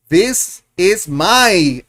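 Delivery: very slow, stretched teacher model; very slow classroom model; drawn-out model. Shown as a demonstration. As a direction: draw each word out for the class. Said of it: "So you're gonna say".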